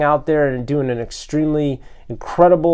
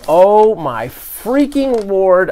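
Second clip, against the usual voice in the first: very slow, louder gush of delight; awestruck; 5 semitones higher, 5 dB louder, much slower than usual. Real, not acted. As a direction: stretch every word out, overwhelmed. Awed at Uncle Owen and Aunt Beru.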